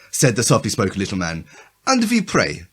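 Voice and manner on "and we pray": slow, heavy German accent, hammed up for laughs. Reading a German character's lines aloud to friends, in a heavy German accent. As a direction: read it like a stage German. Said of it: "a German with a heavy German accent".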